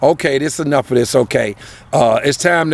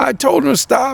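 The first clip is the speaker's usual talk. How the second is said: very high-pitched, tearful, crying begging plea; 10 semitones higher than usual. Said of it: "She's begging, she's, like, crying".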